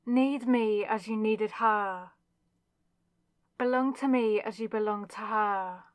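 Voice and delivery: intense, pleading insistence; desperate demand. Acted. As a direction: press each plea harder, possessive and urgent.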